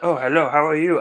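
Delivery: badly imitated French accent; terrible French accent. Retelling the French girl's greeting at the bar, bad French accent. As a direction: attempt a poor French accent. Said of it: "that's a terrible accent".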